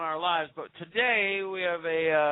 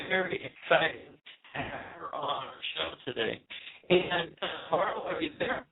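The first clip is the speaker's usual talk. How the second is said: underwater. Real, not acted. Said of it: "It sounds like you're underwater over there".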